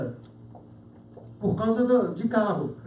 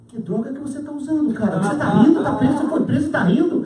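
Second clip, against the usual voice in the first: baffled disbelief; 3 semitones higher, 3 dB louder, faster than usual. Acted. Baffled cellmate questions the laughing prisoner.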